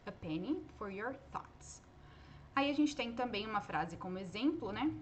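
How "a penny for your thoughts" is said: gently slow, softer English idiom; quoting the idiom. Shown as a demonstration. Teacher acts saying the idiom to a pensive friend. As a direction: say it to someone lost in thought. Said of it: "você fala isso".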